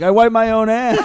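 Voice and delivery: Big Daddy voice. Retold or imitated. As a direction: play it like a dopey movie kid, drawn out. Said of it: "Dan's version in, in Big Daddy when he's like".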